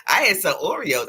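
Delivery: high, half-crying defensive whine; high mock-tearful whine; Britta's whiny denial. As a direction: plead like the embarrassed sister. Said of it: "Britta said".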